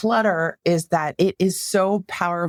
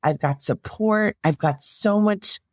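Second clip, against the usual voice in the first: lightly acted positive self-talk, pitch a little lifted; gently voiced pep talk to oneself; self-affirming inner voice; 3 semitones higher than usual. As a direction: model encouraging self-talk, lightly performed. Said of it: "That's how you wanna be talking to yourself".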